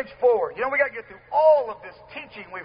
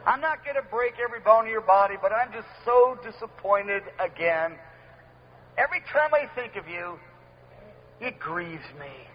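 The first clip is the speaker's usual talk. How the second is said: low, soft, sorrowful sigh of a grieved God; a touch of weary disappointment, fading to a sob-like hush; mournful God; 4 semitones lower, 3 dB quieter than usual. Retold or imitated. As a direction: sound heartbroken and let down. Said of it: "he's sad".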